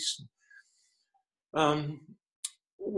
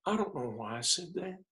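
higher, softer, tearful father imitated; retold tearful regret; 4 semitones higher, 5 dB quieter than usual. Dying father admitting his mistake to his son, retold tearful regret. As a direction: lightly imitate a father choking up. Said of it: "teared up".

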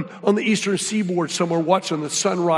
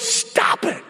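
retold yell; 8 semitones higher than usual. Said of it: "Tina, goes".

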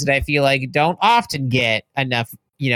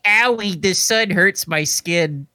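whiny song parody; 3 semitones higher, slower than usual. Retold or imitated. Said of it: "it's probably called, like".

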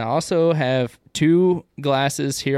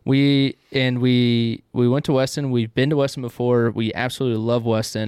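talking around a pipe stem; pipe in mouth. Real, not acted. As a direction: speak with a pipe clenched in teeth. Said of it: "I wanna talk really weird".

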